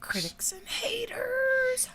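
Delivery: breathy mock ASMR whisper. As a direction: whisper it like a parody ASMR video.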